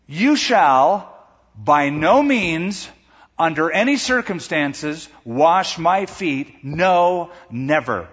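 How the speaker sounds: slow, loud, drawn-out refusal; emphatic double negative. Shown as a demonstration. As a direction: lean hard on every word of the refusal. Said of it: "it should be translated this way".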